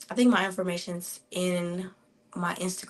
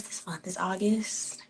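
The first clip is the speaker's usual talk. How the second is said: whisper; 6 dB quieter than usual. Real, not acted. Unvoiced aside to herself.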